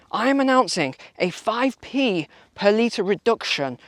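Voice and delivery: lightly voiced panicky politician, sliding into a mock speech; backpedal, then announce it grandly; a hint of Rishi Sunak caught out; Rishi Sunak parody. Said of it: "Mister, uh, Sunak?".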